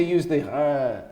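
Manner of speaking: the rejected French R after "the". Shown as a demonstration. Actor showing the R they didn't want, French R. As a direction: sound a throaty French R on "uh". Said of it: "they didn't want the R".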